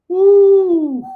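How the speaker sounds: sudden high falsetto woo. Real, not acted. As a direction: whoop it up high. Exclamation mid-preach.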